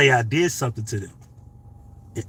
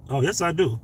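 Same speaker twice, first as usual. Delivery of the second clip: usual speaking voice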